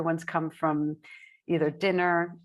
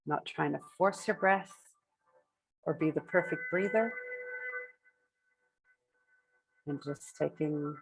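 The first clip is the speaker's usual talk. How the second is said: unhurried meditation guidance with long pauses between phrases; measured phrases, spaced out for breathing; guided meditation. Acted. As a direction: guide the group gently into breath awareness, leaving space after each phrase.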